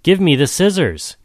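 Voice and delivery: tiny high crab voice, thin and small; a small creature crying up for its scissors. A narrator's reading. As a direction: squeak it out like a little crab. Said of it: "crying in a very small voice".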